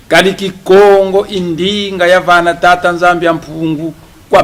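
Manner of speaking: loud, declaiming speech in Kikongo, rising on each line; rousing oratory. Acted. Press conference speaker rallying the audience, loud declaiming oratory. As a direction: proclaim it to the room like a rally speech.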